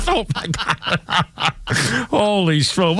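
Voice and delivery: drawn-out amazement through laughter; real laughing disbelief. Real, not acted. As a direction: laugh through the words, slowly. Host cracks up at story.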